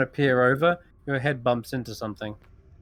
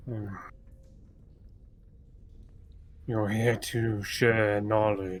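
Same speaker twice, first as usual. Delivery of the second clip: very low, flat, quiet monotone earth elemental voice; 3 semitones lower, 5 dB quieter than usual. Narrating to the players, the speaker voices the returning Earth Elemental in a very low monotone. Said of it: "in a very low, kind of monotone vo- voice".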